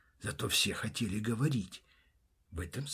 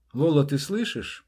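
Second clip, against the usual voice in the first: calling out; 4 semitones higher, 9 dB louder than usual. Acted. Calls again through door.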